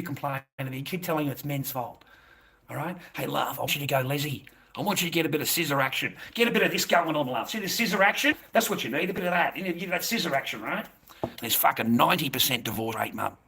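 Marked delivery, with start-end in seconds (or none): 4.8-10.8 mocking taunt. Mocking the caller about scissoring.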